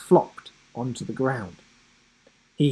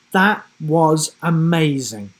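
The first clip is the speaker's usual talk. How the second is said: excited; 2 semitones higher, 5 dB louder than usual. Acted. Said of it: "she exclaimed".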